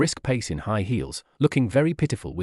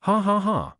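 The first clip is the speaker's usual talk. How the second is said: high, read-out "ha ha ha"; a mild, narrated laugh in separate syllables; spoken mock laugh; 9 semitones higher, slower than usual. A narrator's reading. Chen Chanchi laughing at the couple, mildly acted laugh. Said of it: "couldn't help laughing".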